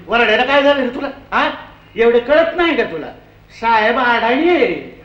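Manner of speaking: a working woman cutting in from the back of the queue; poor labouring woman. Retold or imitated. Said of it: "त्याला म्हणाली".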